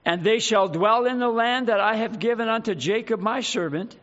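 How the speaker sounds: loud-ish, measured Bible reading; solemn, emphatic pulpit reading; scripture reading. Acted. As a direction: read scripture out with weight to the congregation. Reads scripture aloud to congregation.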